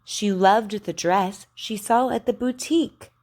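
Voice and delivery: "boutique" ending on a clear K; over enunciating. Shown as a demonstration. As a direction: model "boutique" with a crisp K. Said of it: "Listen careful".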